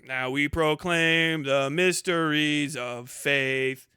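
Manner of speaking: slow, solemn intoning as a priest at Mass; liturgical proclamation. Shown as a demonstration. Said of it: "or the".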